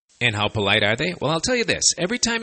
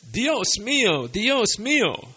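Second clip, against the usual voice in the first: frazzled exclamation; 9 semitones higher, slower than usual. Acted. Frazzled partner says Dios mio.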